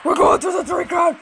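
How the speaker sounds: fast hyped-up shout; fast excited gamer yell. Real, not acted. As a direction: call it out like a winning push. Hyped gamer pushing into third round.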